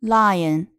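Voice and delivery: "lion" with a clearly sliding "ai" into "uhn"; clear vowel glide. Shown as a demonstration. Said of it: "把其中元音的滑动要读得清晰".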